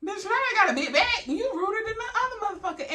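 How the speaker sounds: high, loud disbelief through laughter; shrieking with laughter at the rude nurse; laughing outrage. Retold or imitated. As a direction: laugh out the insult back at her. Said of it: "I'm like".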